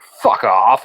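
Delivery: mock-angry burst of volume; Russell Crowe pissed off. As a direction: imitate an irritated brush-off. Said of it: "Russell Crowe got really pissed off".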